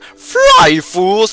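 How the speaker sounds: high, loud squealing command; mock dramatic yell. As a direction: yell the warning as he falls. Gandalf figure warns them.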